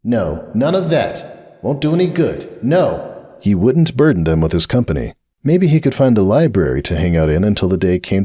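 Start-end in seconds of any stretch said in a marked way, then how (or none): 0.0-3.1 fighting tears. A narrator's reading. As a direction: hold back the tears. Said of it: "fighting the sudden furious wave of tears".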